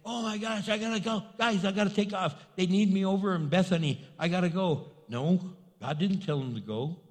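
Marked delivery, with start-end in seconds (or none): 0.0-4.9 mock panic. Preacher pretends Jesus rushing off to Bethany, mock panic. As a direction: play a mild, hammed-up panic. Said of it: "He wouldn't panic".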